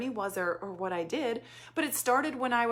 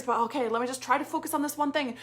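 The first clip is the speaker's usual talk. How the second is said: ordinary talk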